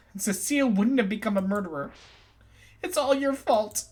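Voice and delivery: furious scolding, pitch climbing; angry accusation. Acted. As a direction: hurl the blame at him. Accusing the game master.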